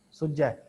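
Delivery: ਸੁਝੈ with a doubled, held ਝ; read with adhak. Shown as a demonstration. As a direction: say ਸੁਝੈ as sujjhai. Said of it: "ਅਧਿਕ ਲਾ ਕੇ ਪੜ੍ਹਨਾ".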